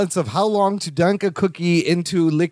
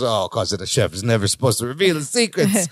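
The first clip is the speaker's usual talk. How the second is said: low mock-French accent; 8 semitones lower than usual. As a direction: imitate a secretive chef's French accent. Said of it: "in his French accent".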